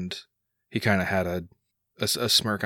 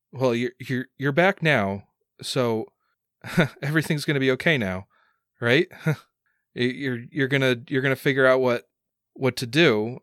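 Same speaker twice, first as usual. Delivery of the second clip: higher, stumbling, with nervous little laughs; anxious hope; 4 semitones higher than usual. Acted. Son begs dad to fix things, anxiously hopeful. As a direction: seek reassurance, pitched up and halting.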